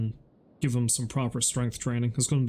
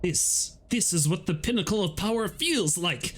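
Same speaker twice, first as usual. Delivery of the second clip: robot voice; 5 semitones higher than usual. Pretend. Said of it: "says the robot".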